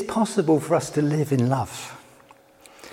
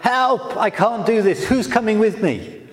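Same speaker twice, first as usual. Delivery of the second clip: a higher mock cry of panic; panicked cry; 3 semitones higher than usual. Moses overwhelmed by his task, mock panicky plea. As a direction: replay Moses' panic, a touch raised. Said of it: "panic and despair".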